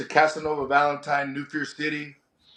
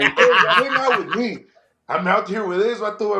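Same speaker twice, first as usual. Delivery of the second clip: retold hearty invitation; 4 semitones higher, 3 dB louder than usual. Retold inviting the punk kids.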